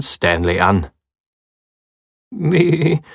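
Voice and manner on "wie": hopeful. A narrator's reading. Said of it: "fragt er hoffnungsfroh".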